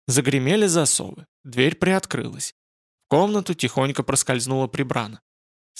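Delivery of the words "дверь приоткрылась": ordinary delivery, nothing marked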